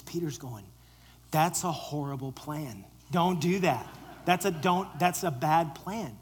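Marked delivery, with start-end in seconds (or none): 1.3-6.2 raised, insistent protest; alarmed objection. Acted. Peter loudly objecting to Jesus' plan, alarmed. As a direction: plead against the plan, loud and urgent.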